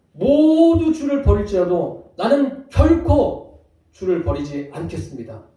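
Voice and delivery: slow, loud, emphatic vow of loyalty; bold loud vow. Acted. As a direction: declare it like a man who will never fall. Peter boldly vows loyalty. (큰 소리로 단호하게 맹세)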